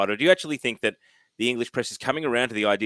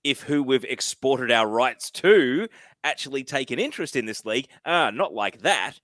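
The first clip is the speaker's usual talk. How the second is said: mock snobbery. English press objecting to Australian interest, mock snobbery. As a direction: imitate a snob balking, slowing down. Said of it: "that snobbery and".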